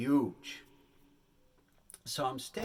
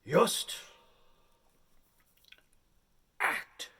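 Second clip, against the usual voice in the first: hammed-up director, slow and halting; a hint of a dramatic director giving orders; 5 semitones higher, 4 dB louder, slower than usual. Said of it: "He says".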